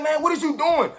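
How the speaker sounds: can't believe where he's running; exasperated disbelief. Retold or imitated. Chasing his armed friend the wrong way, exasperated cry.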